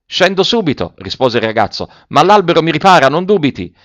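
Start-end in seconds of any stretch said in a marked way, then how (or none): 0.0-0.9 calling back. A narrator's reading. Boy calls back from tree. 2.1-3.7 high, quick called reply; calling back. A narrator's reading. Boy in the tree to officer, calling out.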